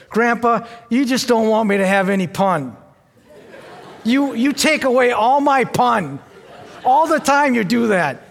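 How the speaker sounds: "pun" with a P where the F of fun should be, said through a laugh; imitating a child's lisp. Grandpa imitating his granddaughter saying "pun" for fun, laughing. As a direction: mimic a toddler who can't say F, saying "pun". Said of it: "she has a hard time pronouncing the letter F".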